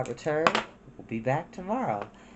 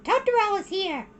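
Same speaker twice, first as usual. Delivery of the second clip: Mei excited. Acted. Mei exclaiming.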